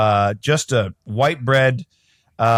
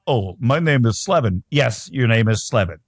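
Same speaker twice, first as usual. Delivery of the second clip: mock Morgan Freeman voice; 4 semitones lower than usual. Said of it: "That voice".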